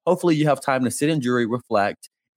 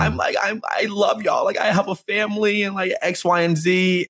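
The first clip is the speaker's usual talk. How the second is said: mock-emotional gush, pitched way up; imitated emotional outburst; 8 semitones higher than usual. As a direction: act out her overcome, high-voiced outpouring. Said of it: "came into an emotional outburst being like".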